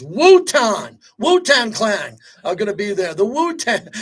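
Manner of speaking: excited hype. Real, not acted. Hyping the Wu-Tang show.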